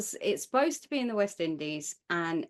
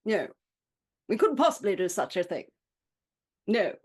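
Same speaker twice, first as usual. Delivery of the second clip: put-on posh English accent. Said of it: "That's how all English people speak".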